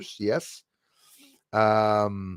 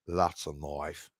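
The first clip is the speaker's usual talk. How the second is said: deep, slow mock Aussie drawl on "That's a knife"; Crocodile Dundee line; 9 semitones lower, 9 dB quieter, slower than usual. Quoting Crocodile Dundee to Aussie viewers, mock Australian accent. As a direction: growl it low like a bushman. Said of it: "Crocodile Dundee came out".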